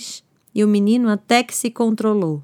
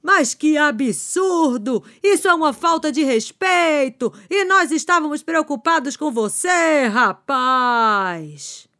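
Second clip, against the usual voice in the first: a hint of an indignant grown-up, slow at the start; scolding neighbor; slower than usual. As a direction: scold the boy, lightly voiced.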